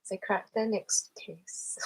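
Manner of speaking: slow Irish accent gone Scottish; Scottish-tinged Irish accent. Shown as a demonstration. Streamer finishing the accent test, Scottish-sounding Irish. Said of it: "it's going into Scottish".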